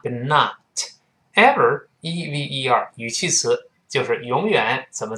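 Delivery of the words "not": American "not" with an open ah; "not" with an unrounded American vowel; American pronunciation. Shown as a demonstration. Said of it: "美国还是把O变成啊".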